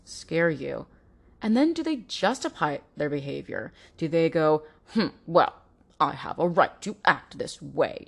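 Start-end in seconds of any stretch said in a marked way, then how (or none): 4.9-8.0 mildly smug, self-satisfied musing; a hint of a partner who thinks they're entitled. Abusive partner justifying his behavior, lightly smug. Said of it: "in a smug tone".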